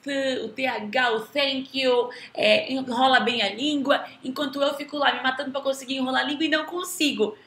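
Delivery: imitating a parent puzzled by their child's pronunciation; marveling parent. Parents asking the teacher about their child's English, amazed. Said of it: "É muito comum os pais virem falar pra mim".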